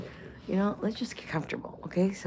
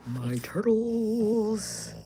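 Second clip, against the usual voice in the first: dramatic; 3 semitones higher, 5 dB louder, much slower than usual. Pretend. Dramatic mock farewell.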